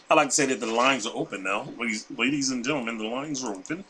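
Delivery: Bob voice. Pretend. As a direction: drop into a low relaxed persona. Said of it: "That's my Bob voice".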